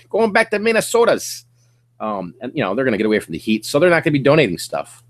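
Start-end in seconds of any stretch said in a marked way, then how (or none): 0.1-1.5 put-on Minnesota accent, lifted higher; mock Minnesota accent. Snowbirds returning north, playful Minnesota accent. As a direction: tease in a light Minnesota accent. Mocking snowbirds going home.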